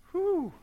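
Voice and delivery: high falling whew. Acted. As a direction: let out a high-pitched whew before the race. Race day arrives in story.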